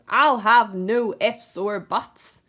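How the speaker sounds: a hint of a greedy snarl; snarling rat. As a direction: snarl it as you snatch.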